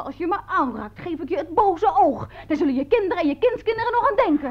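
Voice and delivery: mild mock yell climbing high; retold shrieked threat. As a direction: re-enact cursing him, building in pitch. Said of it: "Oh, ik gilde".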